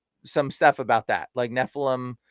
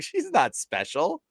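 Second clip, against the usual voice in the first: demon voice; 6 semitones higher, slower than usual. Retold or imitated. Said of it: "and she's like".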